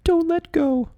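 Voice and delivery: very high, loud cry; desperate plea. Acted. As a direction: beg her to hold on. Holding mother's hand.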